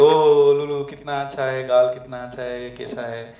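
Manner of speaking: put-on light baby talk, cooing; a hint of doting adult cooing. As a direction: fuss over a cute baby's cheeks. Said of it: "आप बोलेंगे".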